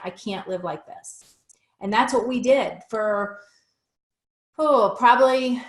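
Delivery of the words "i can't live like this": breathy whisper, almost no voice; a whispered, worn-out repeat of her vow to her husband. Retold or imitated. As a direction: let "I can't live like this" fall to a whisper. Repeating her vow, voice dropping away.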